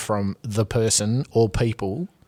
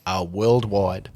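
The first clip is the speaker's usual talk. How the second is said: movie quote; 3 dB quieter, much slower than usual. Pretend. Step Brothers reference.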